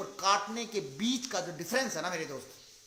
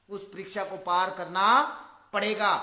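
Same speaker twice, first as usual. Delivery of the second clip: emphatic repeat; 6 dB louder than usual. Shown as a demonstration. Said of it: "repeated louder".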